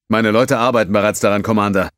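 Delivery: a burly alien, worried; gruff Tellerite. Acted.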